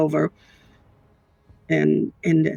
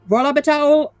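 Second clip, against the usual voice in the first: drill sergeant voice; 5 semitones higher than usual. Acted. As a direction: command the hallway like a drill sergeant. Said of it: "she's gonna use her drill sergeant voice".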